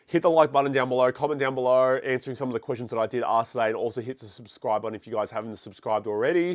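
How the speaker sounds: congested, stuffy voice; blocked nose. Real, not acted. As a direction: talk through a blocked nose. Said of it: "I'm very congested at the moment".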